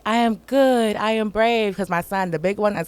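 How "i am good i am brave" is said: put-on higher, louder affirmation with a child; lifted, emphatic recital; recited affirmation. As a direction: declare it like a bedtime affirmation. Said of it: "after the prayer, we're like".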